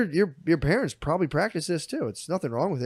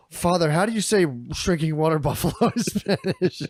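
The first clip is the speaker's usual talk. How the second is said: laughing through the quote. Retold or imitated. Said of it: "and then the one guy goes".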